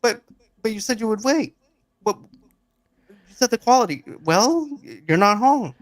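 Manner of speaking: husband whining on the phone to his wife, high and pleading; whiny high complaint. Retold or imitated. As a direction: whine it like a disappointed husband. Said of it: "He goes".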